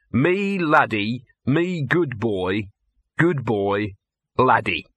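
slow, syrupy mock praise for a dog; a dog sneering as he mimics a fawning trainer; mock doting trainer. Gaspode scoffs at the trainer's doting, slow and mocking. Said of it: "And you know what he's saying?".

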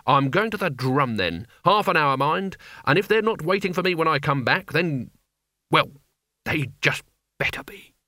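testy orders sinking to a menacing whisper; crotchety wizard warning his underlings; irascible old wizard Albert, threatening. Acted. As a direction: give the ultimatum, then hush the threat.

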